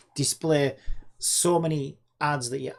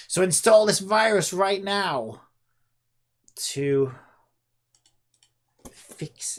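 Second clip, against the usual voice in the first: mock scam popup voice; 4 semitones higher, 5 dB louder, slower than usual.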